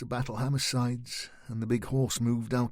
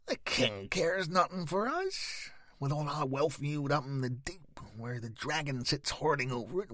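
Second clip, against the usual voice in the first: vicious piping gnome; 3 semitones higher, 3 dB quieter than usual. Acted. Gnome complaining to the travellers about the king, viciously. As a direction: spit out each grievance. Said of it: "The gnome's piping voice was vicious".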